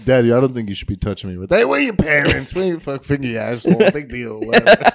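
gruff Jersey dad. Acted. Tough Jersey dad rant.

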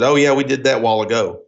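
"while ago" slurred into "wallago"; imitating dad, "while ago" said as "wallago"; dad's pronunciation. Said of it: "He said".

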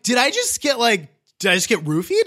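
high, alarmed rising question; panicked disbelief. Retold or imitated. Realising she was drugged.

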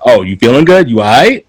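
imitated casual, blunt fitting-room check; abrasive check-in. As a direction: ask it loose and familiar, mocking the blunt version. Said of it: "And you're just like".

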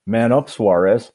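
lightly voiced taunt, a bit slow; a hint of a mocking heckler; heckler's jeer. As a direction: jeer it across the bar. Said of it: "I hear the voice again".

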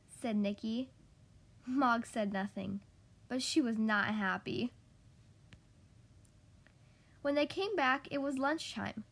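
measured storytime delivery with animated dialogue; children's story reading. A narrator's reading. Podcast host reads a requested picture book to kids, storytime reading. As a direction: read a picture book to little listeners, expressively.

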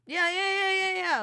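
high, excited yeahs; eager. Real, not acted. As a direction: rattle them off, keen to start. Eager reply before the topic.

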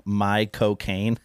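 "my cocaine" drawn out slowly, word by word; name sounded as words. Shown as a demonstration. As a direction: stretch out "my cocaine" so it passes for a name. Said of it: "there's no difference in Michael Caine saying his name".

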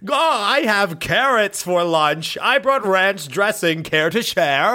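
slow, friendly and lightly put on; a mild perky office bot; chummy bot voice. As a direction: offer lunch like an eager coworker bot. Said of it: "for a head that's like".

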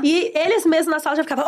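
usual speaking voice

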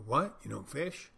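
hammed-up shock at a simple no; incredulous. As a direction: play the baffled barfly who can't believe it. Bar guy incredulous at non-fisher.

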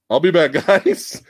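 glitchy robotic sound; choppy stuttering audio. Real, not acted. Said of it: "now it's back to that robotic sounds".

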